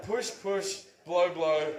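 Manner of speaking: quoting himself and breaking into laughter; laughing through it. Retold or imitated. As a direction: repeat the quote while cracking up. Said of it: "That's the exact thing I said".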